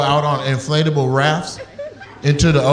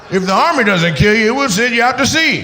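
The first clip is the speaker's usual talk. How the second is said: mock warning shout; 6 semitones higher than usual. Comedian riffing, rising to shout.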